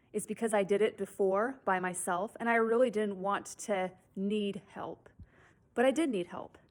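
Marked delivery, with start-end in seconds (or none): 5.7-6.6 hushed, breathy whisper of a hard truth; whispered admission. Real, not acted. Whispering to viewers that she really did need help. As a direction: let the confession drop to a whisper.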